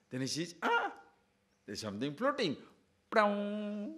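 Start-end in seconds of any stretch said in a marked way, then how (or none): 0.6-2.6 kite spotting prey. Acted. Kite spots the floating frog. 3.1-3.9 swooping kite cry. Acted.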